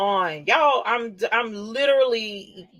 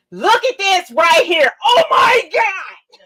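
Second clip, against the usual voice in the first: loud, high, tearful shouts stretched out slowly; overwhelmed, nearly sobbing with delight; crying with joy; 6 dB louder, slower than usual. Real, not acted. Streamer shows her fans the tribute shirt, tearful joyful shouting. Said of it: "I would literally start crying right now".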